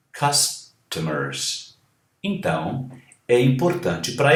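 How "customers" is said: Customers very slowly, vowels drawn out; slow model. Shown as a demonstration. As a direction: stretch out Customers syllable by syllable. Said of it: "A, E, E".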